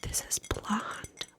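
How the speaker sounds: slow, close, breathy whisper into the mic; soft ASMR goodbye whisper. Acted. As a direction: whisper it tenderly, right up on the mic. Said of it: "a sweet and tender A S M R style goodbye".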